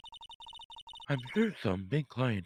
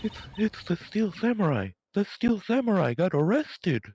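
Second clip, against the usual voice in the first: higher urgent alarm; excited panic; 5 semitones higher than usual. Acted. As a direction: rush in with shocking news. Panicked robot news.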